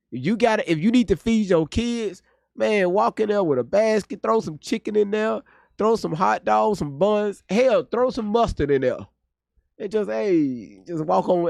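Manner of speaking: sarcastic impression of a smug attorney; mocking the attorney. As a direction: parody the lawyer's careless shrug. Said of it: "That's exactly what he said".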